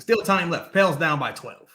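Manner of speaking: dry, low announcer imitation; understated fed-up commentary; Joel Myers impression. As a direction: give the score as a resigned play-by-play man. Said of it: "He's like this".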